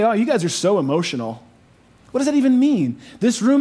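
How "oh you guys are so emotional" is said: mock dismissive. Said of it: "foolish for me to say".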